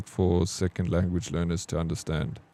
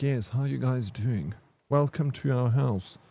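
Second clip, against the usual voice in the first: light, higher, polished English voice; neutral English accent; 4 semitones higher than usual. Retold or imitated. Imitating the Afrikaans kids switching to neutral English, lightly. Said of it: "they have no accent, nothing".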